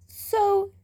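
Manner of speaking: a hint of a hissed order; hissed scram. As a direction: spit the word out as a hiss. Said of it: "came out like a hiss".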